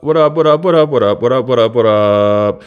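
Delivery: a playful sing-song what up voice; odd put-on greeting voice. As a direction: goof around with a silly greeting voice. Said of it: "I don't know why I'm talking like this".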